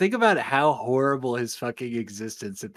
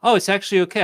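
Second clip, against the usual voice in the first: alien voice; 6 semitones higher, 6 dB louder, much faster than usual. Retold or imitated. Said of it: "then says".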